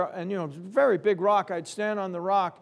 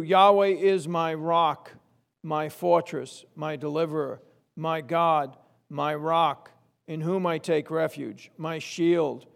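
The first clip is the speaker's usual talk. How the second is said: scripture reading. Acted. Reads Psalm aloud slowly.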